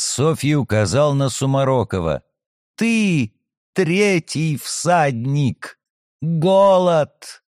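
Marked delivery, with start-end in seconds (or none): 2.8-7.4 eerie prophetic voice. Acted. Possessed girl names him.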